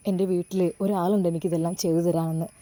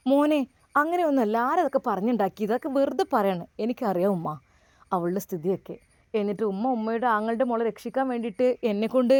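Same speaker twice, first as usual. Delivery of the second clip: pleading mother. Acted.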